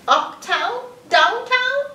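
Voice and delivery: high, rising, eager questions; excited questions. Acted. Boy wonders where to go.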